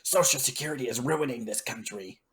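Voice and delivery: lightly put-on cable pundit voice; hint of a ranting TV commentator; mock news rant. Imitating his own Fox Business rants to family, mock pundit. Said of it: "my Fox Business News rants".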